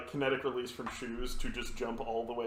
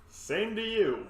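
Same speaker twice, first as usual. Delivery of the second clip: shouting back; 8 semitones higher, slower than usual. Acted. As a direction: throw it back in a raised voice. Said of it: "I shout back".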